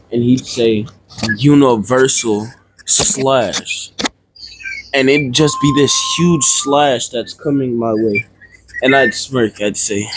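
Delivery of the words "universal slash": drawn-out name of an attack; slow attack call. Acted. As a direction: call the move out slowly, word by word. Announcing a sword attack by name.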